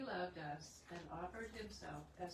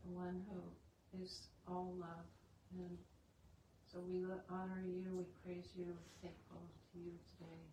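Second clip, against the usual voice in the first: earnest group prayer, steady and reverent. Acted. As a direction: pray aloud for the gathered family. Opens the meeting in prayer.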